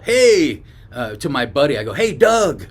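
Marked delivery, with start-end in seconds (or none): 0.0-0.6 higher, louder calling-out; retold yell. Re-enacting a yell to a buddy at the nursery, raised call. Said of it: "And I yelled". 1.9-2.7 high, raised shout to a buddy; real loud call. Retold or imitated. Calling a buddy who wasn't around, retold loud call. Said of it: "real loud".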